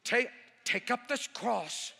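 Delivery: slow put-on scripture voice; mocking imitation. Seatmate quotes red letters at the preacher, mocking. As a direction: draw it out, mimicking a scoffer. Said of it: "I'm telling you".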